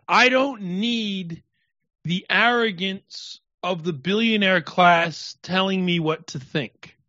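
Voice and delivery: slow, high, whiny mocking voice; mocking a rock musician. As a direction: sneer it like a prissy celebrity. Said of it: "He said the gayest thing".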